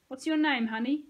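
mocking sweetness. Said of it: "he said".

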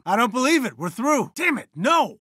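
high-pitched cries of disbelief; dismayed outburst. Acted. Commander seeing the fight lost, dismayed outburst. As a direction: burst out in rising dismay. Reacting to a battle loss.

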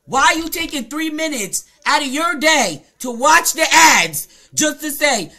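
loud, punched-out angry question; exasperated scolding. Real, not acted. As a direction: hammer each phrase in exasperation. Scolding a commenter for wasting time.

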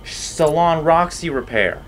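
hammed-up French salon stylist; French accent. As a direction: put on a French accent, with some drama. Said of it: "I'm not using my French accent enough".

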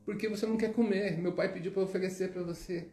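put-on a small boy earnestly explaining; little boy explaining.

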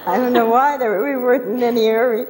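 high, laughing excitement; excited. Retold or imitated. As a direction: relive the thrill, laughing. Retelling wild fast car ride.

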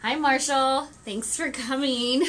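loud cheerful hello; calling out. Real, not acted. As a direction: call out a greeting. Calling greeting to viewer.

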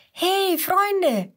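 little dino calling excitedly to his friends. Acted. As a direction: call cheerfully to friends. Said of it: "ruft Mats ihnen zu".

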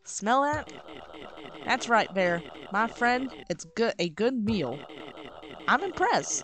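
grudgingly impressed, lightly Southern character voice; somewhat Southern accent. Acted. Cook praising the first good meal, somewhat Southern accent. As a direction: grant the praise with a Southern twang. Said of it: "this somewhat southern accent".

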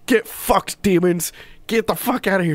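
high-pitched imitation of heckling fans; mock yelling. Livestream chat heckling demons at a sumo ritual, mock yelling. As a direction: jeer it high without real volume. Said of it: "yelling, like".

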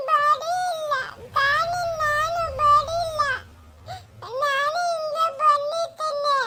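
put-on small child crying while explaining. Lost child explains to a stranger how she got here, crying. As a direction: whimper it out, tearfully. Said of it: "ಅಳ್ಬೇಡ ಸುಮ್ನಿರಮ್ಮ".

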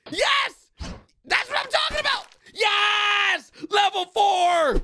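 screaming with joy at the win; triumphant cheer. Real, not acted. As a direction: celebrate like you just won. Crewmates finally win the level.

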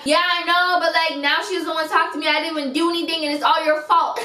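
mock-whiny accusation; whiny blaming. Retold friend blaming her.

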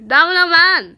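loud, high shout of a name; calling out. Acted. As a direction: yell for a missing friend. Redone acted call to character.

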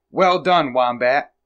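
loud praise, starting high; cheering cry. A narrator's reading. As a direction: cheer on a friend. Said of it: "cried Weasel and Woodchuck".

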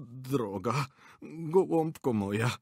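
slow, sweet wheedling; fawning old man. A narrator's reading. Director to angry actress, slow fawning plea. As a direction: coax her gently. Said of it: "zaczął Indiukow".

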